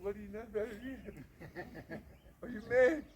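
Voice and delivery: high, agitated volley of questions; retold outburst of alarmed disbelief; incredulous wife. Wife's incredulous reaction, retold.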